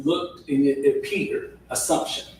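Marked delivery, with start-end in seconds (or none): 1.7-2.3 "assumption" set apart as its own word; emphasis on "assumption". Real, not acted. Witness qualifying an answer to the questioner, emphasis on "assumption". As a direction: stress "assumption", with a pause after it. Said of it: "emphasis on assumption".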